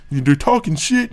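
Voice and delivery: slow, sneering echo of "They're talking shit."; mocking repeat. Repeating the interviewer's phrase back with slow disdain. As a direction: drag out "They're talking shit." slowly with scorn. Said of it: "since when did interviewers start talking like that".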